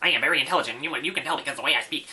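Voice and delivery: rapid, self-assured, authoritative know-it-all lecturing tone. Imitating a video creator who talked fast with authority: imitating someone talking fast with authority. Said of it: "talking really fast and with authority".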